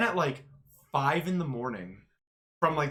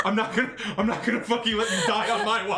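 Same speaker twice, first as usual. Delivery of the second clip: laughing exasperation; 4 semitones higher, 3 dB louder, faster than usual. Retold or imitated. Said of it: "I'm like".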